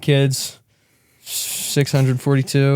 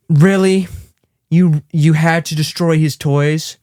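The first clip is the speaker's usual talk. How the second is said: high, slow, disbelieving wife; an annoyed wife scolding; exasperated wife; 3 semitones higher, slower than usual. Retold or imitated. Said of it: "She goes".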